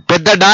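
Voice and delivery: "ఢ" pressed as an aspirated retroflex d; pressed aspirated sound. Shown as a demonstration. Teacher naming the big letter for learners, "ఢ" pressed hard. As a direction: put weight and breath on "ఢ". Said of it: "ఒత్తి పలకాలి".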